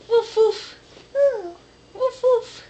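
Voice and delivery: dog barking. Pretend. Imitating dog for toddler.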